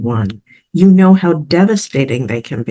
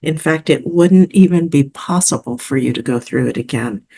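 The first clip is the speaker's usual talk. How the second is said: calm, measured meditation delivery; guided visualization. Acted. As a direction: lead the listener gently through it, with pauses between phrases.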